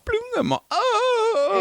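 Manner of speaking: high plop sound, then high "oh!"; retold dismayed cry. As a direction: mimic the drop, then wail high. Acts out dropping phone in toilet.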